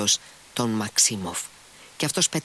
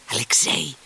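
calling from afar; 6 semitones higher than usual. A narrator's reading. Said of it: "του φώναξε από μακριά".

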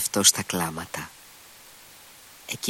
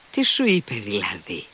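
grumbling. A narrator's reading. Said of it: "γκρίνιαξε ο Ρακίτιν".

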